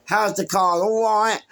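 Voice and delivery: high, loud sneering question; mock taunt. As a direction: needle him loudly. Taunting neighbour about car.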